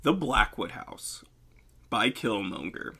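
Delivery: slow, deliberate title announcement; measured story narrator; storytelling voice. Acted. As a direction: read the title like a spooky storyteller. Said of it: "Storytelling voice".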